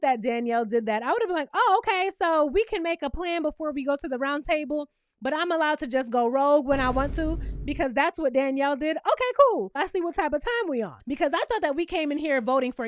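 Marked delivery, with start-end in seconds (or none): 1.5-11.0 sarcastic okay. Retold or imitated. Imagined reaction as Brittany.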